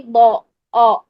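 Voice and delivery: بو with the thick "aw" vowel, not "aa"; heavy rounded ضا. Shown as a demonstration. Teacher gives the right sound, heavy rounded ضا. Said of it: "او کی sound آئے گی".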